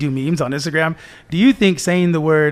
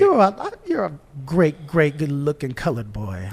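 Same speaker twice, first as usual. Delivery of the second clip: mock patronising old racist; slower than usual.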